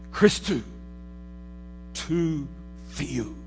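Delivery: "Christou, tou theou" said as Greek, syllables spaced apart; Greek words. Retold or imitated. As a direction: quote the Greek "Christou, tou theou" slowly, one word at a time. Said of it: "In the Greek".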